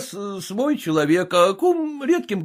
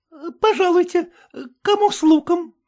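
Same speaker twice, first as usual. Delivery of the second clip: proclaiming maid; 10 semitones higher than usual. A narrator's reading. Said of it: "и возгласила".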